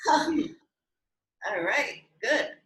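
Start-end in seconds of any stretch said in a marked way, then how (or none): 0.1-0.3 forceful exhale huh. Shown as a demonstration. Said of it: "as we exhale".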